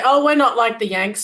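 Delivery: mock-Australian brag; Aussie accent. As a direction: say it like a proud Aussie, a bit loud. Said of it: "my best Aussie accent".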